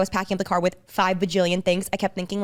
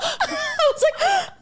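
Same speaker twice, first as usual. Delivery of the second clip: high-pitched laugh; much slower than usual. Real, not acted. Laughing hard while retelling.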